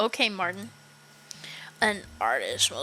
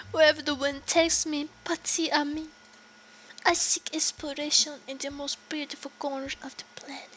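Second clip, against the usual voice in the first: put-on airy, higher French-accented voice; 4 semitones higher than usual. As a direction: play a dreamy French wanderer, pitched up. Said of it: "with the line wolf French accent".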